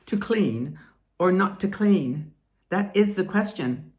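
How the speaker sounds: slow, grand Shakespearean delivery; classical stage acting. Shown as a demonstration. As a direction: declaim it like Hamlet, lightly. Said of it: "Try the most serious Shakespearean voice".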